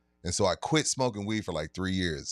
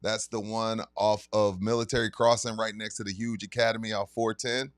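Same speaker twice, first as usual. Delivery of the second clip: sponsor ad read. Acted. Announcing the liquor store signing to listeners, hyped ad read. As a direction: pitch the event like a radio spot.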